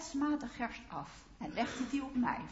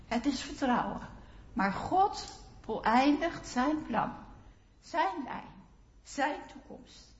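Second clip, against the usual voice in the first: raised sermon voice with spaces between phrases; emphatic preaching; 7 dB louder than usual. Real, not acted. Preacher as Ruth on Boas finishing what he began, emphatic preaching. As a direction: preach louder, in short weighty phrases.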